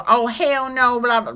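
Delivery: put-on a brassy Inland Empire reality-show girl; loud, sassy Inland Empire twang; Inland Empire accent. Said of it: "and she talked like this".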